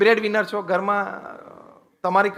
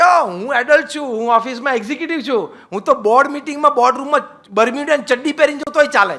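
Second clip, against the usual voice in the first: mock self-important adult; 5 semitones higher, 4 dB louder, faster than usual. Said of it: "તમે એમ કહી શકો કે".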